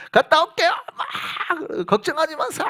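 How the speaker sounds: high, sugary voice of a recruit; sweet recruit voice. Retold or imitated. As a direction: wave goodbye sweetly to parents. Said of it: "막 이러고". (부모님께 인사하는 훈련병의 높고 달콤한 목소리)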